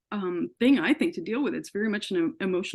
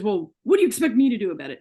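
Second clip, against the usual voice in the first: imitating the doctor's yell, louder and fast; retold yell; 5 dB louder, faster than usual. ER doctor yells at his sick patient, loud and fast. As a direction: snap it back like a fed-up doctor. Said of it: "And he yelled this at me".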